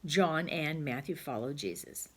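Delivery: slow, deliberate dictation; slow model sentence. Shown as a demonstration. Teacher modelling the joined sentence slowly. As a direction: spell it out slowly for the children. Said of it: "Then the sentence would say".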